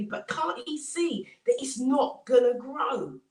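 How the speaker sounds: lightly acted ridicule; mocking. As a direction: scoff at the fool next door. Mocking neighbours voiced in story.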